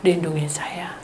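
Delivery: hushed whispered prayer; silent prayer. Retold or imitated. Praying in her heart for protection, whispered. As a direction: pray under the breath. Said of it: "saya berdoa dalam hati".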